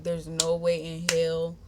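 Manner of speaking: drawn-out, mock-tearful disbelief; holding in tears. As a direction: retell it as if holding back tears. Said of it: "literally holding in my tears".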